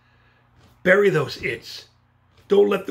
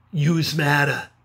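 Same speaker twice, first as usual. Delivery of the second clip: Brooklyn "yous"; 3 semitones lower, slower than usual. Shown as a demonstration. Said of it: "You're from Brooklyn".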